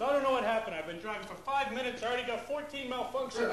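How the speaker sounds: dad stunned at the dashboard; baffled dad. Retold or imitated. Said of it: "He goes".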